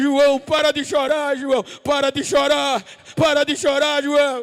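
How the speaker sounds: loud, booming, thundering shout. Acting out an angel running to where John was crying: shouting in a great voice. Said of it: "gritando com grande voz".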